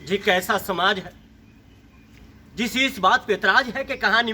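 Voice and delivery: indignant grief, an appeal to society; Manto, sorrowful. Acted. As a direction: plead with wounded conviction, voice rising midway. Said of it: "Manto ने दुखी होकर कहा था".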